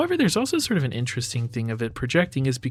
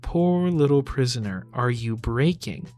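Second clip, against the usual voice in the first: mocking. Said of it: "a sort of mocking".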